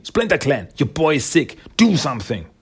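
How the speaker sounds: imitated bossy urgency; acted urgent command. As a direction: order them to act, playing someone fed up. Sally ordering the clan to act.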